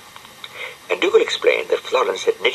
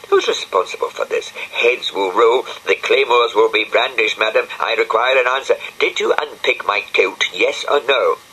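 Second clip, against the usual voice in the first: indignant demand; 4 semitones higher than usual. Acted. Dougal confronts Penelope about kilt.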